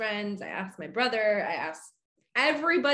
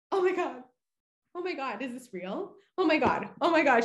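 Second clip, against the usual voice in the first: retold freak-out; 5 semitones higher than usual. Winner in a friend's garage learning of the ticket, acted-out freak-out. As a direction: re-enact stunned, high-pitched disbelief. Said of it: "freaking out".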